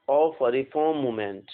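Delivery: slow, clear English phrase; slow dictation. Shown as a demonstration. Teacher dictating a phrase to students, slowly. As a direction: read it out slowly for writing. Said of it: "सबसे पहला one word substitution".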